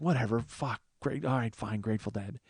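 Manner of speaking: mock-weary acceptance, fading away; grudging resignation. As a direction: give in under your breath, deflated. Grudging inner thought after fake enthusiasm.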